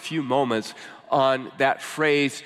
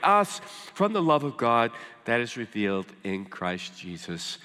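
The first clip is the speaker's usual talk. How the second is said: slow, careful reading; 4 semitones lower than usual. Real, not acted. Preacher closes the Romans passage, slowing and softening. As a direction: ease down reverently to the final words. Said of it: "read it kind of slowly and carefully".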